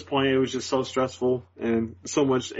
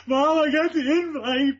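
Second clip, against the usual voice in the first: retold crying; much slower than usual. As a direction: blurt the news while crying. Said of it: "I broke down in tears".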